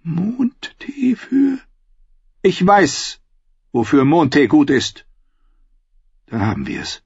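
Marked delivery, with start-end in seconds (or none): 0.0-5.1 slow, breathless hushed question; drawn-out whispered question. Acted. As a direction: hiss it back in disbelief. Queen repeats secret word.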